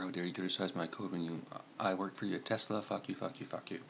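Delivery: understated hacker fury, cursing at the screen, half under his breath; seething rant. Acted. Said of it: "Mike is seething, angry at Elon Musk, and yells at the screen".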